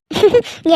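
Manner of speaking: short high laugh. Acted. Daughter laughing at her mother's scolding, laugh.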